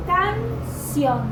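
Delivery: "canción" split up, loud and high on "ción"; stress on final syllable. Shown as a demonstration. Teacher demonstrating a palabra aguda, "canción" with loud final stress. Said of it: "la sílaba tónica es sion".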